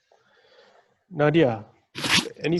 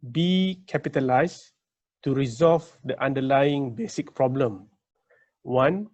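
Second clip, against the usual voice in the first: careful slow reading. Real, not acted. Moderator reading out a long audience question, slowly and carefully. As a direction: read out in short, well-separated phrases. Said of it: "to read slowly".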